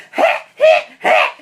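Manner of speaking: loud forced laugh at own pun; laughing at own joke. Acted. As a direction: laugh it up, hammy.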